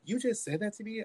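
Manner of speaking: high, wounded retold disbelief; reenacted upset accusation; crying pissed. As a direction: throw it back at them, hurt and angry. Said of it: "crying pissed".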